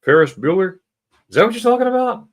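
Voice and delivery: loud, high, fast excited question. Real, not acted. Host reacting to a viewer's guess, excited and loud. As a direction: burst out, thrilled at the guess.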